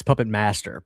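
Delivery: "Puppet Master" said pointedly as a correction; corrected pronunciation. Shown as a demonstration. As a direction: spell out "Puppet Master" by ear, correcting someone. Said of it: "It's Puppet, it's Puppet Ma".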